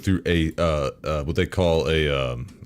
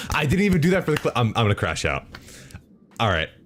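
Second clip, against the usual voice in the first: ordinary talk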